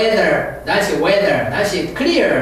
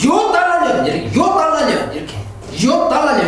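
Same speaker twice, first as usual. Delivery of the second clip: higher mock scolding mother-in-law; hammed-up mother-in-law curse; mother-in-law cursing; 6 semitones higher than usual. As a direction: jab at it like a nagging mother-in-law. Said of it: "시어머니 ... 욕을 더 붙여요".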